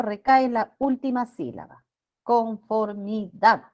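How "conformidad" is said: "Conformidad" slowly, syllable by syllable, landing on DAD; stressed final syllable. Shown as a demonstration. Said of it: "Aquí está la sílaba tónica". ("Conformidad" silabeado despacio, con acento en DAD)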